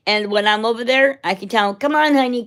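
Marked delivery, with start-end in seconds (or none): 1.7-2.4 higher, coaxing pet call; calling a dog. Retold or imitated. Calling the friend's dog to follow her home, coaxing. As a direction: coax the little dog to follow you.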